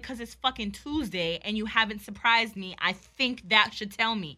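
re-enacted irritated comeback, drawn out to finish; retold pointed retort. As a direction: spell it out for him, annoyed. Retold quarrel with boyfriend.

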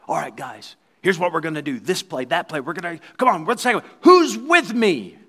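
a captain rousing his team, building to a big call; rallying captain. Retold or imitated. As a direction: start easy, then fire them up on the last question. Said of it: "the captain will get the team together".

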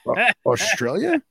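high, drawn-out stunned question; can't believe he's overseas; shocked disbelief. Retold or imitated. To the overseas buyer, stunned and disbelieving. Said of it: "And I said".

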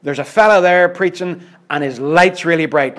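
hammed-up thrill over a star preacher; mock-eager churchgoer spreading news; mock excited gossip. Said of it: "they'll say to themselves".

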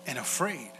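slow, drawn-out question; slow reading of scripture. Acted. Pastor reading Jesus' question to the disciples, slow. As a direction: let each word land slowly. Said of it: "It says".

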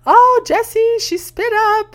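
high, loud panicked cry for help; startled yell. Retold or imitated. Grandpa covered in spit up, calling for his daughter, loud startled yell. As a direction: shout for help, caught off guard. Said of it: "he'd start yelling".

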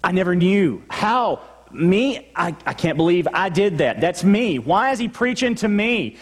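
a churchgoer suddenly caught out and reeling; shocked disbelief. Retold or imitated. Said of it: "are you shocked when you hear".

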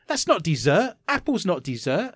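put-on indignant child. Acting indignant child answering mum.

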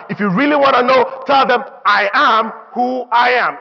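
a God telling him to shut up; fed-up God. Retold or imitated. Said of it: "God was just telling Moses".

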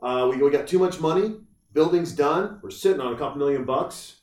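hammed-up preacher proclaiming a surprise; imagined preacher. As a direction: announce good news like a preacher to the congregation. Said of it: "there's never been a preacher that's like".

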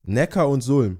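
Neckar und Sulm, each river distinct; two separate names. Shown as a demonstration. Host grasps the two rivers, separating Neckar und Sulm. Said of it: "Das sind zwei Flüsse".

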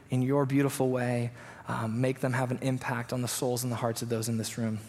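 soft, subdued praying voice; prayer. Real, not acted. Pastor praying before he opens the word, soft prayer. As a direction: speak quietly and earnestly to God.

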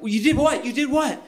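high, incredulous double take; mock shocked high voice; surprised. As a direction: play the wife's stunned disbelief. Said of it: "she was like".

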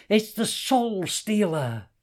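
high, loud and slow dread; fearful cry. A narrator's reading. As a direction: warn of a deadly magic object. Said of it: "snarled Hassan".

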